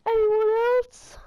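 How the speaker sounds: Thor's line. Retold or imitated. Hero taunting the crowd after a knockdown, slow dramatic challenge. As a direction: stretch out "Anyone else?" like a movie hero daring the room. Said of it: "one of the Thor movies".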